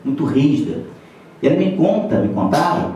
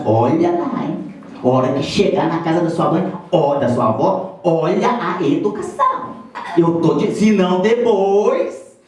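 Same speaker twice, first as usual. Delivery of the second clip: madre ammonitrice. Retold or imitated. Mother warning child before visit.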